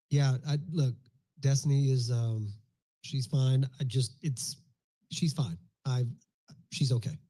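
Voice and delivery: halting and unsure, with pauses; stumbling, evasive reassurance; hesitant, uneasy delivery. Shown as a demonstration. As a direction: sound like you're hiding something. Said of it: "Virtually the same words, different inflection".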